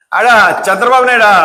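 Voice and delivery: mocking "చంద్రబాబు నాయుడా" with a falling sneer; sarcastic demo of addressing him rudely. Shown as a demonstration. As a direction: spit out "చంద్రబాబు నాయుడా" as a taunt. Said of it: "ఇది వ్యంగ్యం".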